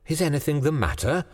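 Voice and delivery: frightened, high and breathless. A narrator's reading. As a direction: gasp it out in alarm. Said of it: "she asked breathlessly".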